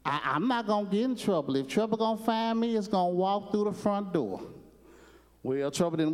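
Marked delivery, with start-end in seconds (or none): 0.0-4.4 Gomer's protest. Retold or imitated. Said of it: "he's like".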